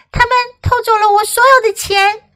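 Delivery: high, loud upset cry; panicked frantic pleading. Acted. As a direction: cry out in distress. Robbed woman crying out.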